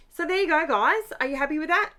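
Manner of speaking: bright sign-off to the audience; upbeat. Real, not acted.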